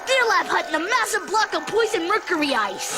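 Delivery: story narration. Acted. Lloyd telling his class the legend of his home planet, dramatic narration. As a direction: narrate an epic space battle for an audience. Tells the class a holiday saga.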